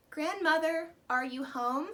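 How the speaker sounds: put-on girl calling for her grandmother. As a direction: call into the house. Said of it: "she called from the open door".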